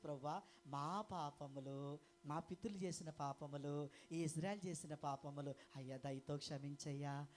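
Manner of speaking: low, slow pleading prayer to the Lord; humble prayer. Retold or imitated. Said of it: "వాళ్ళు ఏమని ప్రార్థన చేస్తే". (తక్కువ స్వరంలో నెమ్మదిగా వినయపూర్వక ప్రార్థన)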